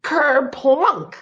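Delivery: high, drawn-out, loud splash noise; slow, punched-up sound effect; huge kerplunk. A narrator's reading. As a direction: boom out a big kerplunk. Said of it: "made a huge".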